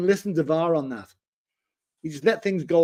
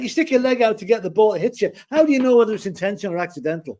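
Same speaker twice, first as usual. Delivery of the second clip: higher-pitched, quickening argument; exasperated challenge; 6 semitones higher, faster than usual. Real, not acted. Co-host disputes the offside law with host, exasperated. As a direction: argue back at the ruling, real exasperation.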